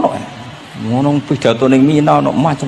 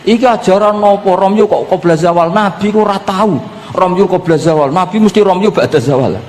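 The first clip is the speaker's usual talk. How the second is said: higher-pitched indignant protest; mock an irate pilgrim's complaint, raised pitch; retold angry outburst; 6 semitones higher than usual. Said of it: "Ngamuk-ngamuk". (niru wong ngamuk-ngamuk protes)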